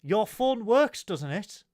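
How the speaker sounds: slow, high and loud nagging; pointed question from a nagging mum; nagging mother. Retold or imitated. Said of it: "Breaking news from the mother".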